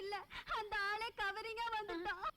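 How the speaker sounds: soft, sobbing complaint; tearful. Acted. Bride complaining that the groom himself was a fake, tearful. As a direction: whimper it through tears. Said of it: "அழாதம்மா".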